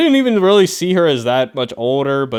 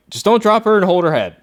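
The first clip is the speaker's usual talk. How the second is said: higher, louder urgent call to a panicking person; calm them fast and firm; "Just don't drop her and hold her head" said high and urgent; urgent advice; 7 semitones higher, 4 dB louder than usual. Shown as a demonstration. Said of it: "you just be like".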